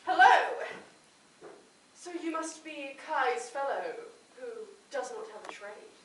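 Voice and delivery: usual speaking voice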